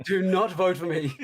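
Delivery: giggling do not vote for me; laughing protest. Real, not acted. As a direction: laugh through a playful refusal. Guest laughing off vote plea.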